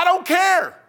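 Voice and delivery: high, loud shrugging quote; a hint of mock indifference; careless. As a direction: toss it off as if nothing matters. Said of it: "things you say".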